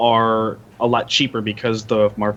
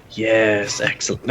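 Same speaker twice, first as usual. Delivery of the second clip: sly little voice; slower than usual. Acted. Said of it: "you hear a little voice go".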